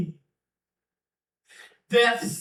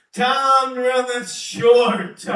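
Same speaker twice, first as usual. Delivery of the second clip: prophetic shout; 3 semitones higher, 3 dB louder than usual. Acted. Prophet cries out warning.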